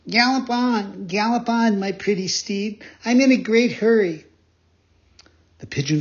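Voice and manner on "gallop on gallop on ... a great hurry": high-pitched, merry calling out; gay cry. Acted. Pinocchio riding the pigeon like a horse, crying out gaily. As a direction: urge on the steed in a gleeful child's voice. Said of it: "He cried out gaily".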